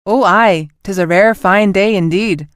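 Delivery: a clumsy fake Scottish accent for a joke; dreadful Scottish accent. Captain teasing her crew in a terrible Scottish accent. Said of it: "in a dreadful attempt at a Scottish accent".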